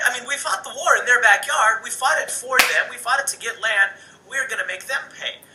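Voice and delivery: righteous British lawmaker demanding payback; a touch of hammed-up outrage; voicing the British. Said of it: "they think".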